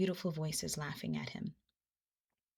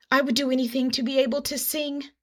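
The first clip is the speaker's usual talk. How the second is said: earnest plea; 6 semitones higher, 5 dB louder than usual. A narrator's reading. Armadillo eagerly insists.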